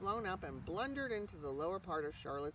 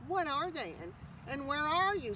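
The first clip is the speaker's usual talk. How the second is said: higher, louder, urgent cry; excited scream; 8 semitones higher, 5 dB louder than usual. A narrator's reading. Pig cries out to the unseen voice. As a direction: shout it out eagerly. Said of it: "screamed Wilbur".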